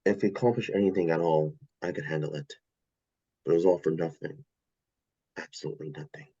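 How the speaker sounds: very low, heavy resignation; bleak despair. Acted. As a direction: sink deep and fade into hopelessness. Condemned X-Man despairs before execution.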